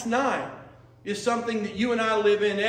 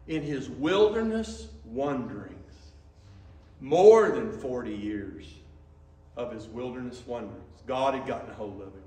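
tearing up; 6 semitones lower, 3 dB quieter than usual. Real, not acted. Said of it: "I'm tearing up".

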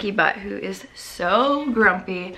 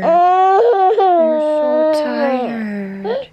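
cooing; 4 semitones higher, 7 dB louder, much slower than usual. Real, not acted. Comforting crying baby loudly.

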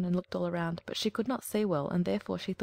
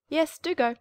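high, louder huffy hen; dismissive hen; 8 semitones higher, 6 dB louder than usual. Acted. Hen dismissing the duckling, high and huffy. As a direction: wave it off like an offended hen.

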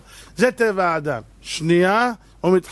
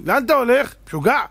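louder, higher scolding wife; 7 semitones higher, 4 dB louder than usual. Retold or imitated. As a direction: snap at him as the worried wife. Wife scolding husband leaving. (אישה נוזפת בבעלה, בקול רם)

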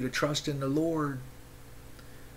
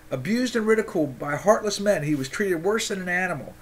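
fired-up reread; 5 semitones higher than usual. Acted. Re-reads the passage after the outburst.

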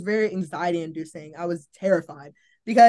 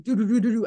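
heartbeat sound; faster than usual. Retold or imitated. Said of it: "my heart would just go".

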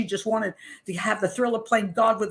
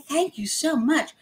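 high, slow, saccharine thank-you; mock sweet thanks; 6 semitones higher, slower than usual. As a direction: thank the nurse in a fake-innocent coo. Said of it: "a very sweet image".

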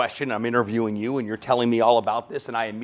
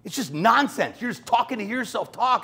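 stern coach; 11 semitones higher than usual. Retold or imitated. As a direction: shush and dismiss him. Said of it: "she goes".

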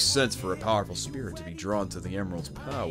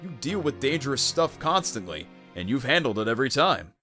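raised-pitch, emphatic encouragement; insistent pep talk; 5 semitones higher than usual. Acted. To a scared young teammate, insistent encouragement. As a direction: build the case point by point.

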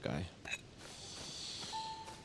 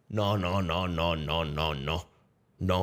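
repeated no's dropping lower and softer; fading no's; 12 semitones lower, 6 dB quieter, slower than usual. Real, not acted. Streamer dismissing the idea, fading no's. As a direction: let the no's sink away to almost nothing.

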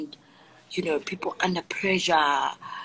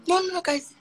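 ordinary delivery

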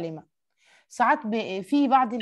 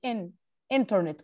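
انترنت with the first syllable ان hammered hard; انترنت, punch ان and rush the rest; stress on first syllable; 4 semitones lower, 4 dB quieter, faster than usual. Shown as a demonstration. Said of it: "كأنك بتجيب شاكوش وبتدق عليه".

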